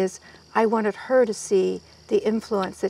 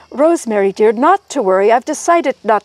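put-on Cockney accent; 3 semitones higher, 5 dB louder than usual. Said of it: "deeply Cockney accent".

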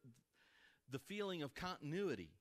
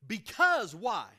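loud rhetorical question; 5 semitones higher, 13 dB louder, slower than usual. Real, not acted.

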